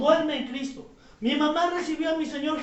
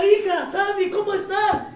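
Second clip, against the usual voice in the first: calling out; 3 semitones higher, 4 dB louder than usual. Retold or imitated. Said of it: "yo le hablaba".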